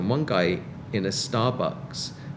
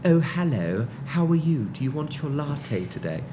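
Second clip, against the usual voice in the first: lightly hammed-up British greeting; mock British accent; 4 semitones higher than usual. Coffee seller greeting a British regular, mock British accent. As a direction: imitate someone putting on a British accent. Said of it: "impression of these people".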